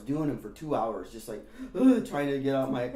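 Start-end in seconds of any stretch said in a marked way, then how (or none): 1.8-2.0 loud, strained grunt. Retold or imitated. Girl working off her fear on a skateboard, strained grunt. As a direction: grunt with effort, high and loud.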